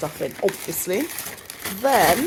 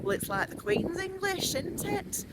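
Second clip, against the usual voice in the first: retold coach driver; 10 semitones higher, 5 dB quieter than usual. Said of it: "he said something like".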